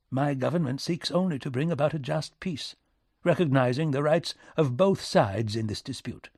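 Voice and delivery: formal British envoy; British minister, formal. Acted. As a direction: state it as official government policy.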